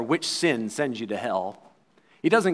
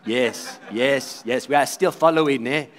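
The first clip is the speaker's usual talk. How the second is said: congregation answering; 3 semitones lower than usual. Retold or imitated. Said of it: "they would have to say".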